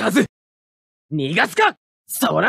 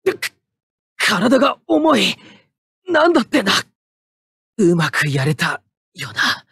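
strained, worn-out pilot; 2 semitones lower than usual. Acted. Pilot strained after the battle.

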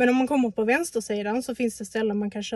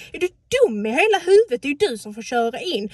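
angry shout; 3 semitones higher, 7 dB louder than usual. Retold or imitated. Retold shouting at driver.

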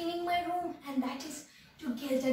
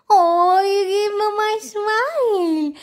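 delighted laughing coo; 6 semitones higher, 10 dB louder, slower than usual. Real, not acted. Dog gives her a smile.

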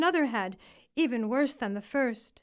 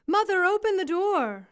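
high, louder whining call; whiny daughter voice; 7 semitones higher, 5 dB louder than usual. A narrator's reading. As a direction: whine at mother through the door. Ugly daughter stuck outside.

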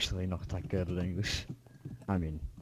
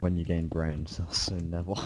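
cold roast; 3 semitones lower than usual. Real, not acted. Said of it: "That was cold".

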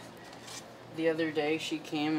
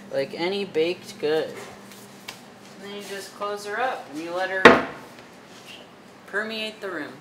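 louder, homespun cooking-show delivery; folksy cooking host; 3 semitones higher, 5 dB louder than usual. Acted. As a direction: crank it up like a down-home TV cook.

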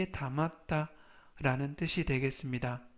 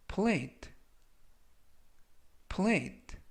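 higher-pitched, careful word drill; each word set apart, pitched up then falling; slow model reading; 5 semitones higher, much slower than usual. Shown as a demonstration. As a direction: read it out slowly for learners to repeat. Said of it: "천천히 세 번씩 읽어드리고요".

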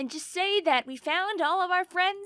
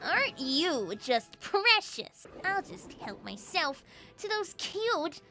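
mock villain; 3 dB quieter, slower than usual. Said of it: "Dark Lord Furby".

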